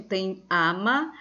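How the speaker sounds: ordinary talk, nothing marked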